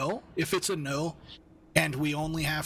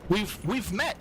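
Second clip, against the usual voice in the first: sarcastic retort; 6 semitones higher than usual. Retold or imitated. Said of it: "And I was like".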